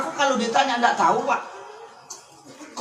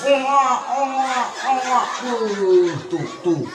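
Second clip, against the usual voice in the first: mother hushing; slower than usual. Retold or imitated. Mother soothing crying baby.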